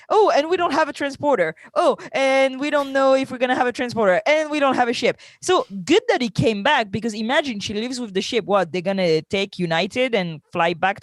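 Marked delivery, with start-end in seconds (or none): 0.1-5.2 higher, fast, hammed-up listing of problems; mock exasperated crew. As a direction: rattle off the excuses in a mocking, fast sing-song. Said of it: "And they're like".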